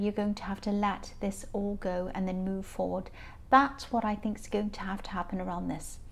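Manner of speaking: tired, croaky throat. Real, not acted. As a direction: speak through a croaky, worn-out voice. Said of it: "excuse my croaky voice, I'm very tired".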